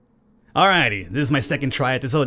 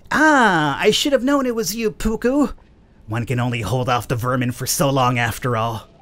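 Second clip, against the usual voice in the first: villain voice. Acted. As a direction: sneer it out as a gloating villain. Villain Mormo speaking in-game.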